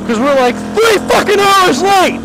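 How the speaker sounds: high, loud, fed-up outburst; real exasperation cracking upward; exasperated rant. Real, not acted. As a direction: blurt it out, at the end of your rope. Ranting about the late flight.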